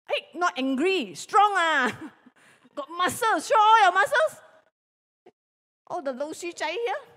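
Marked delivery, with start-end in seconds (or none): 1.2-1.9 loud, firm "Strong". Shown as a demonstration. Teacher showing the kids a strong voice, loud. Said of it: "Show me how when you are strong". 3.5-4.3 high, loud call to flex; excited. Shown as a demonstration. Teacher urging children to show muscles, high and loud. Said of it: "Show me how when you are strong".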